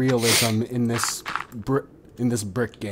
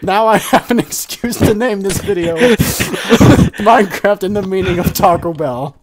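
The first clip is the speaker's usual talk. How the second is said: mock formal statement; 6 semitones higher, 5 dB louder than usual. Shown as a demonstration. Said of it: "repeat what you said for the jury".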